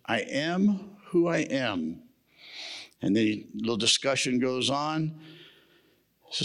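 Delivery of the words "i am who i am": slow, weighty God voice; solemn God. Acted. God answering Moses, slow and solemn. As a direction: lay each word down slowly like God. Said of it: "And God says".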